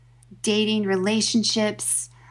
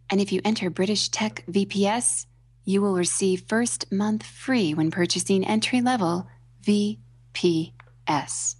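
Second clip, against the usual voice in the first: smooth lower ad-read voice, slowing on the end; infomercial voice; 3 semitones lower than usual. Shown as a demonstration. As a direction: read it like a TV shopping host. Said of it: "I'm gonna do this in my infomercial voice".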